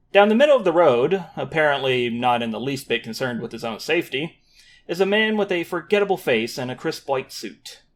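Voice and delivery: calm storyteller narration; story narration. A narrator's reading. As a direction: set the scene like a narrator. GM reads opening scene.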